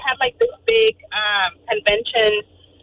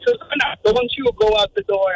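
put-on German accent; 3 semitones higher than usual. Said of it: "He had, like, a thick German accent".

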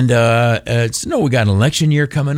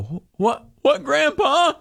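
put-on kid voice; slower than usual. Kid answering grandpa.

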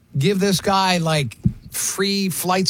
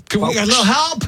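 pilot voice; 9 semitones higher than usual. Pretend. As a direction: start calm then beg for help. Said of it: "you started in the pilot voice".

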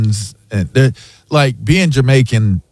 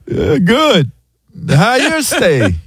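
higher, imitating a Jamaican accent; Jamaican accent imitation; 10 semitones higher, slower than usual. Asian pilot greeting a passenger in a Jamaican accent. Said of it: "and he was like".

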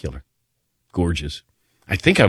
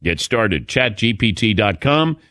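smooth, slightly lifted radio sponsor read; 3 semitones higher than usual. Acted. Host pitching a chatbot to listeners, light ad-read delivery. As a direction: sell the features clearly, item by item.

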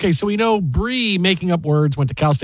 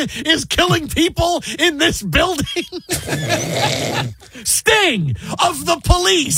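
high-pitched mock disbelief; hammed-up astonishment, much higher; incredulous outburst; 9 semitones higher than usual. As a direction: blurt it as an outraged, baffled quote. Acting out Only Murders line.

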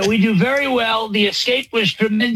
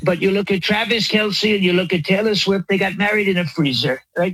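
rambling mock-presidential boast; lightly voiced Trump parody; Trump impression. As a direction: riff like a bragging president.

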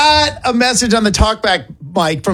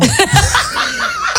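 laughing. Real, not acted. Cracks up after failed attempt.

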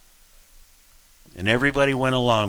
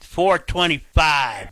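lightly voiced airport announcer, higher and drawn out; 4 semitones higher, slower than usual. Host imagines being Logan's airport voice, lightly mock announcer. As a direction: call the flight slowly, a hint of PA announcer. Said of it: "Being the, you know".

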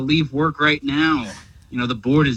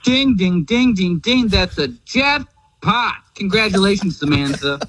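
ringing jackpot call; game show host; 4 semitones higher than usual. Acted. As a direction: celebrate the win like a TV host. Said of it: "I still don't really get the game show voice".

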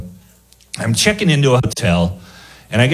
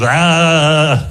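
drawn-out "ah"; 3 semitones higher than usual. Retold or imitated. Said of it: "I kinda just went".

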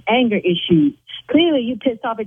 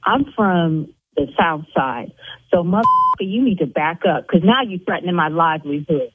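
tough South Side; 5 semitones lower than usual. Acted. Owner threatening the caller back, lower and menacing. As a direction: drop down and get street with him. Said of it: "Yes, I'm gonna go there with you".

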